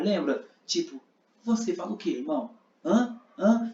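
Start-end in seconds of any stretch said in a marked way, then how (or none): 1.4-3.7 taunting, pushy questions; provoking. Shown as a demonstration. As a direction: needle him for an answer. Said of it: "Sabe quando você tá provocando a pessoa?". (provocando, insistente)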